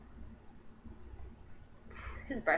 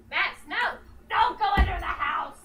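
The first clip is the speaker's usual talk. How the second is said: calling out to the dog; 7 semitones higher than usual. Real, not acted.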